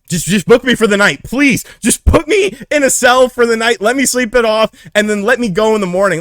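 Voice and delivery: high, loud desperate plea; teen begging police to jail him instead. Retold or imitated. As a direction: beg the officers, voice straining up high. Begging cops not to call parents.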